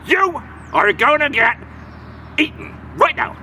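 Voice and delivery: mild menacing troll; lightly voiced troll threat. Troll threatening big Billy Goat, mild menace. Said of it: "he said".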